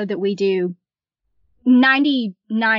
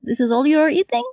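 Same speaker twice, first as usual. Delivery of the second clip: playful imitation of Russian waitress; comic Russian accent, questioning then accepting; 4 semitones higher than usual. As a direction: resign yourself, in mock Russian. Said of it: "in her Russian accent".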